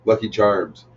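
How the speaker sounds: "Charms" as Canadians say it. Shown as a demonstration. Canadian showing how home folk say it, Canadian "Charms". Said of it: "The way that we say charms to them".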